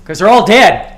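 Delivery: loud, punchy payoff; joke punchline. Acted. Answering own riddle for the room, loud punchline. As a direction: land the punchline hard.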